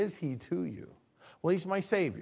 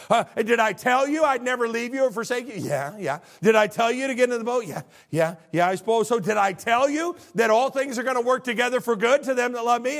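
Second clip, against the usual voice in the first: high, louder insistent questions; questioning God; 8 semitones higher, 7 dB louder than usual. Pretend. Pastor voicing God questioning him. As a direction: press each point home.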